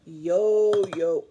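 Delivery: loud, deep, playful announcing; excited reveal. Shown as a demonstration. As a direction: show off the toy to the class. Teacher presents yo-yo.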